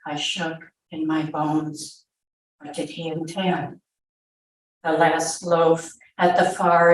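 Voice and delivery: measured read-aloud narration with pauses; story narration. A narrator's reading. Mother recalling soldiers in her house, story narration. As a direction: read it out as a dramatic first-person tale.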